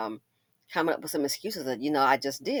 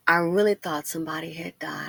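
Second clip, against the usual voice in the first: whisper. Real, not acted.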